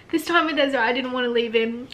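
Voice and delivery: fighting back real tears; upset. Real, not acted. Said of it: "I don't even know why I'm getting upset".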